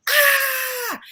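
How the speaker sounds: high, loud mock scream; retold scream. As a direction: belt out a sharp yell to scare the ghosts. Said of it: "screamed real loud".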